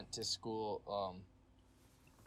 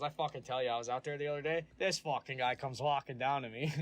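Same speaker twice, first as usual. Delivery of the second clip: imitated full-on Canadian accent, a bit louder; 3 semitones higher, 4 dB louder than usual. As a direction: spin a yarn like a sweary Canadian buddy. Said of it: "acquired the accent so hard".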